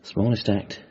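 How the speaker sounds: whispered under breath; murmured to himself. Acted. Man repeating the waitress's words to himself in a whisper. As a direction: murmur the phrase privately.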